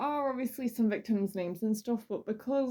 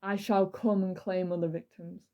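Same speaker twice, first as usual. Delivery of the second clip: dramatic reading; slower than usual. Acted. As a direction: savour each gruesome threat slowly. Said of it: "This is a dramatic reading".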